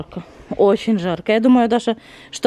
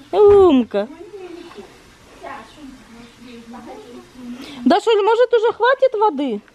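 calling out, raised and high; yelling across the room; 6 semitones higher than usual. Real, not acted. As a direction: call across the yard to her. Calling to the pool outside.

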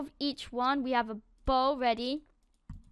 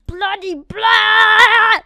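drawn-out, much louder exasperated groan; frustrated groan; 6 semitones higher, 12 dB louder, much slower than usual. Real, not acted. Gamer groaning at the screen, exasperated. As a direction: stretch it out in disgust.

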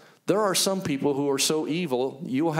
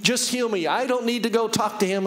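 higher, insistent retold plea to God; pleading prayer; 5 semitones higher than usual. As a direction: plead for healing in an unbroken run. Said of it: "And I'm praying, I'm like".

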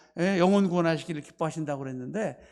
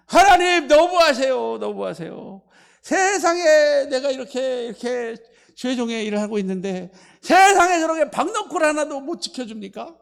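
whining Jonah; 4 semitones higher, 3 dB louder than usual. Retold or imitated. Jonah complaining to God.

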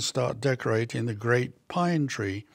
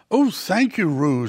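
delighted; 4 semitones higher, 5 dB louder than usual. Acted. Owl swoops down delighted.

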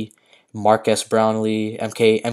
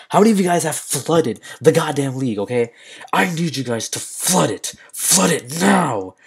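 raised, pushing the chat to flood it; urgent demand; 3 semitones higher than usual. Real, not acted. Streamer urging chat to flood the league, insistent and raised.

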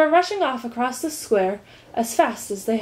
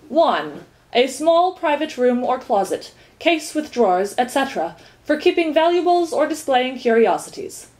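numbered dictionary definition, recited higher; reciting; 5 semitones higher, 4 dB louder than usual. A narrator's reading. Duke defines cabinet for Milo, reciting. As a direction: read out each definition formally. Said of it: "recited the duke".

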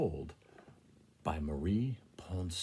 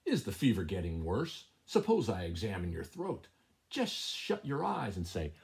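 sly cat voice; 3 dB louder than usual. Acted. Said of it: "She heard him ask".

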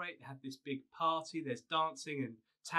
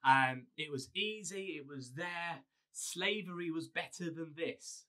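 mock grumbling; 3 semitones higher than usual. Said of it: "they're like".

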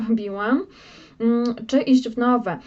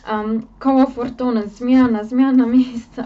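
excited; 7 dB louder than usual. Real, not acted. Excited card reveal.

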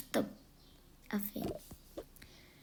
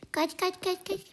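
yelling run; 9 semitones higher than usual. Pretend. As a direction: shout at the barking dog to flee. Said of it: "Ne bağırıyorsun kızım ya?". (bağırarak kaç diye)

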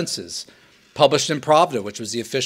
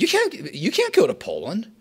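communist official forbidding; 8 semitones higher, 3 dB quieter than usual. Acted. Acted quarrel, communists forbid visit.

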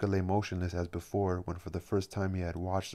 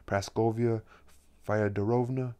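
nervous call; 4 semitones higher, 4 dB louder than usual. A narrator's reading. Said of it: "he called out, now nervous and trembling".

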